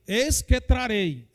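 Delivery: slow, solemn prophetess declaring; prophetic proclamation. Acted. (proclamação lenta e solene)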